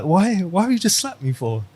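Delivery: high, whiny stunned student after a slap. Retold or imitated. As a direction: squeal it like the slapped student. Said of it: "the student's like".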